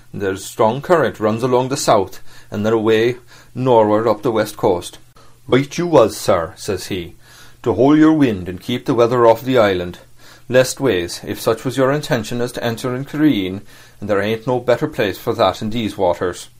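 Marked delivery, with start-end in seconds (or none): 5.5-16.5 put-on old sea cook. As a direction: ease into a hint of a rough old sailor. Silver speaking to the captain.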